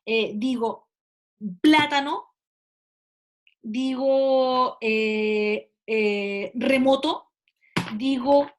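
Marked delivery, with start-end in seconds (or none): 1.6-2.3 plátano with a louder PLÁ; plátano, voice loaded on PLÁ; stress on first syllable. Shown as a demonstration. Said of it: "Acento es donde tú cargas la voz". 6.6-7.3 remoto with the weight on MO; remoto, second syllable stressed; stress on middle syllable. Shown as a demonstration. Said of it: "Acento es donde tú cargas la voz".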